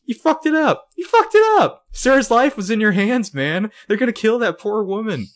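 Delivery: very high, loud mock screeching rant; hammed-up furious yelling. Imagined Spencer berating Toby, hammed-up furious yelling. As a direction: yell accusingly at the top of your range.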